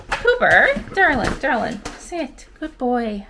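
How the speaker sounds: high, coaxing puppy voice; talking to a dog. Real, not acted. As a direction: sweet-talk the puppy into sitting.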